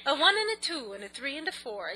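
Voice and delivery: lightly voiced bandleader count-in; a hint of an old bandleader counting off; mild mock bandleader count-in; old-time bandleader impression. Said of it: "now I'm talking like".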